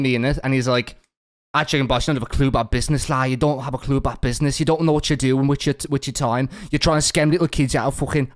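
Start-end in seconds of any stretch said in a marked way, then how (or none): 1.5-8.3 mock Aussie accent, loosely done. Host quotes a rival's video slating him, mock Aussie accent. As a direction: slip into a light Aussie accent. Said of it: "putting an Aussie accent".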